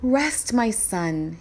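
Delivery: slow, tender soothing; mother comforting her son; gentle mother. Acted. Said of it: "his mother answered".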